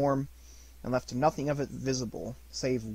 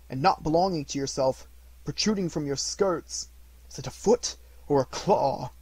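a hint of an anxious old miser; lightly voiced old Scrooge; 2 semitones higher, 4 dB louder than usual. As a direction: ask it as a wary old man. Scrooge questions the spirit.

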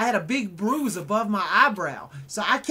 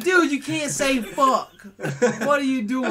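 retold frustrated protest; 4 semitones higher, 4 dB louder, slower than usual. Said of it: "And I'm like".

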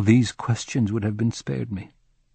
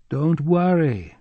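reassuring; 6 semitones higher, slower than usual. A narrator's reading. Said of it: "the chief assured him".

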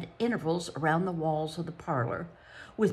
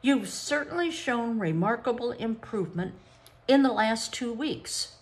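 firm examiner's voice; brisk psychologist; 4 semitones higher than usual. Acted. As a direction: boss the children like an exam proctor. Psychologist explains the game.

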